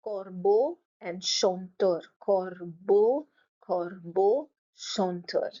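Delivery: "Corbeau" as cor-bo, "chanteur" as shon-teur; syllable by syllable. Shown as a demonstration. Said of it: "split your word into syllables and then pronounce".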